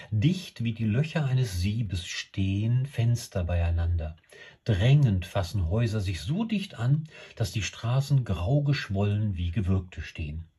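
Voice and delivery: poem recitation. Acted. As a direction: read the stanza aloud with deliberate phrasing. Reads poem stanza aloud. (Gedicht bedächtig vorgelesen)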